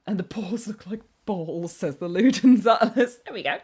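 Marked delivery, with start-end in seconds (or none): 0.1-1.7 whispered, breathless, voiceless. Acted. Streamer whispers a rude chat comment. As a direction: hush it like a naughty secret.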